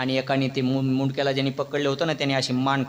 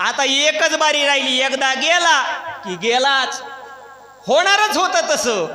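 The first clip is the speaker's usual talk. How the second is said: dramatic suspense; 9 semitones higher, 4 dB louder, slower than usual. A narrator's reading.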